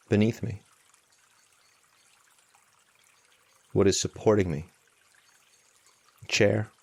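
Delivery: unhurried meditation guidance with long pauses; spacious, measured mindfulness instruction; guided meditation. Real, not acted. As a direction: guide them gently, leaving long silences between phrases.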